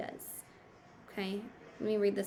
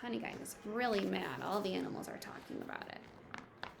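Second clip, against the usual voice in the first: gossipy hush; 7 dB quieter than usual. Acted. Hens spreading the news.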